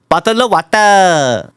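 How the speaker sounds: put-on Singaporean accent; mock Singaporean take on "Bottle of water". Shown as a demonstration. User runs through accents again, Singaporean accent. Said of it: "Singaporean accent".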